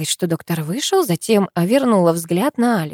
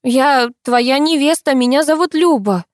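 conciliatory and patient; 7 semitones higher, 5 dB louder than usual. A narrator's reading. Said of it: "примирительно и терпеливо начала я".

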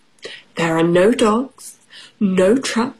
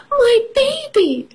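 teary mother's cry. Acted. Mother Mouse finds her baby.

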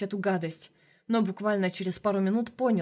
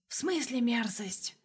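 soft, slow offended hiss; indignant shadow voice; 3 semitones higher, 4 dB quieter, slower than usual. A narrator's reading. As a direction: bristle like an insulted demon. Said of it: "возмутилась тень".

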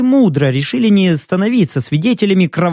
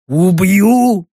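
pleading orc. A narrator's reading. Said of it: "В голосе орка звучала просьба".

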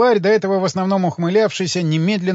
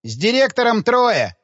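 sudden exclamation, a bit higher; exclaiming; 6 semitones higher than usual. A narrator's reading. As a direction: blurt it out. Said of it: "воскликнул".

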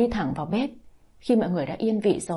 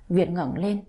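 plain reading voice

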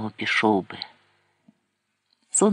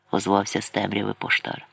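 ordinary delivery

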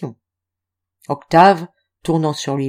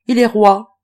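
detached; 3 semitones higher, 6 dB louder than usual. A narrator's reading. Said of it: "d'un air détaché".

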